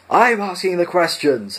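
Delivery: high, loud, slow howl. A narrator's reading. Guard howling at the prisoners in rage: high, loud, slow. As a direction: howl it in fury. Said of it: "howled number two".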